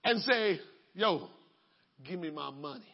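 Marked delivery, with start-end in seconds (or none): 0.9-1.3 low gruff voice of a creditor; demanding creditor. Acted. 2.0-2.8 low, quiet menacing demand; demanding creditor. Acted.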